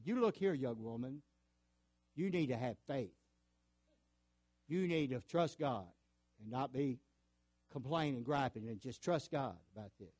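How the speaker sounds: retold stern telling-off, strong opening then easing; mock reproach, punching the first words; condemning. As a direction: lecture her as an imitated scolding church leader. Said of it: "look down at her and condemn her".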